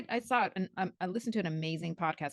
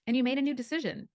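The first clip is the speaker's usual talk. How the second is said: reassuring friend. Retold or imitated. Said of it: "He's like".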